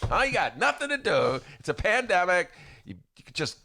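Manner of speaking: high, loud hammed-up coach; pushy coach voice. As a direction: bark at him like a coach.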